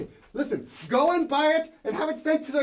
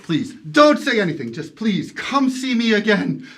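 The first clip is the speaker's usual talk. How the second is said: hearty generosity; 5 semitones lower, 6 dB louder than usual. Acted. Scrooge's generous insistence.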